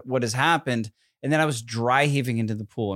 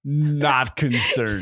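laughing; much slower than usual. Real, not acted. Laughing slow denial.

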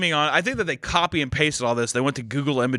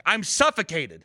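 flat quote of wife; 5 semitones higher, slower than usual. Retold or imitated. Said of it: "she's like".

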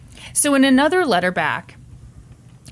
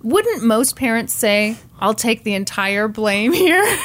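dreamy; slower than usual. Retold or imitated. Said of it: "with dreamy eyes".

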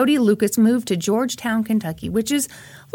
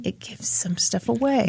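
whispered; 6 dB quieter than usual. Real, not acted. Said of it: "after the colon".

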